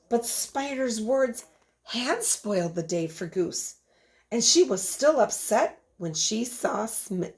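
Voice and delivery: put-on lively read-aloud voice for a class of children; storybook reading. Teacher reading a picture book to her class, storytelling voice. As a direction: tell the story to the kids with expression.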